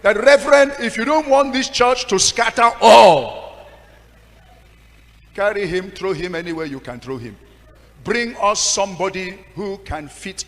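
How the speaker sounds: outraged demand to the reverend; loud demand. Retold or imitated. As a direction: demand he be thrown out. Woman demanding a new pastor.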